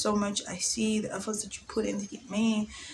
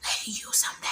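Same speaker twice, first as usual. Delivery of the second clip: soft breathy calling; whispered summoning; 4 dB quieter than usual. Retold or imitated. Summoning an ex by spirit, mock whisper. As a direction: call him softly through the spirit. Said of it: "you can call somebody by the spirit".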